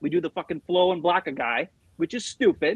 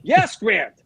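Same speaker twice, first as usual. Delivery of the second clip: weary agreement; 6 dB louder than usual. Retold or imitated. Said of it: "I'm like".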